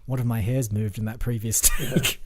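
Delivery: lightly voiced Bautista, dry and flat; deadpan Dave Bautista. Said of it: "in his, like, deadpan, um, Guardians of the Galaxy style way".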